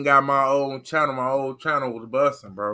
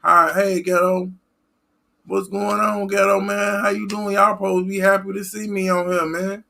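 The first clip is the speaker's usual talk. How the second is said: mock fan greeting; 6 semitones higher than usual. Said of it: "Don't be coming up in here not saying".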